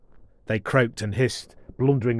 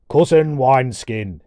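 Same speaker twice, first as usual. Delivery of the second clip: dwarf voice; 5 dB louder than usual. Acted. Jorathor interrupting.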